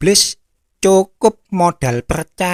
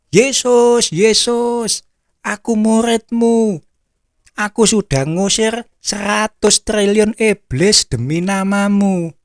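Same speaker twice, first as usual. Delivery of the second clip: high, desperate cry to Jesus; pleading cry; 5 semitones higher than usual. Acted. Dead disciple crying out to Jesus, high and pleading. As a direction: beg to be recognised, voice pitched high. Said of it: "Orang itu teriak-teriak".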